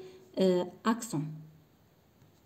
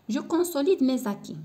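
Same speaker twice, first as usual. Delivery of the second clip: slow dictation; 5 semitones higher, much slower than usual. Shown as a demonstration. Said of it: "teacher reads exercise title slowly".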